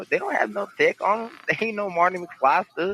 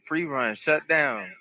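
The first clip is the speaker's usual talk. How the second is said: speakerphone; slower than usual. Real, not acted. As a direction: voice through a phone speaker. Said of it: "'cause I've got you on speaker".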